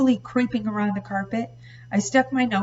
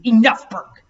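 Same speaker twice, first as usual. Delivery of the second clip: loud sharp shout to stop them; father shouting to stop the quarrel; 3 semitones higher, 11 dB louder than usual. A narrator's reading. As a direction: cut them off hard.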